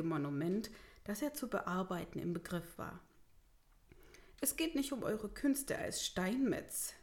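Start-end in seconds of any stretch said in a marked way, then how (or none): 4.4-6.9 slightly higher, impatient mayor; mildly brusque correction; somewhat gruff. Acted. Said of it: "versetzte der Bürgermeister etwas unwirsch".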